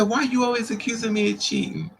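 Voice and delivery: high, aggrieved imitation of a cheater; hammed-up indignant whine; mock screaming protest. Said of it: "He's screaming".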